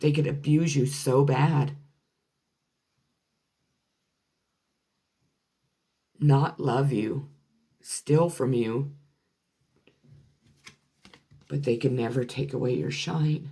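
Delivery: extremely emotional, deeply moved, close to tears. Speaking to the listener about their journey: extremely emotional. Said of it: "It made me just extremely emotional".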